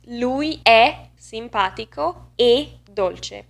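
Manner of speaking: slow Italian, "è" wide open, "e" tight and closed; open versus closed E. Shown as a demonstration. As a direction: contrast open "è" with closed "e", slowly. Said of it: "To use them both in one single sentence".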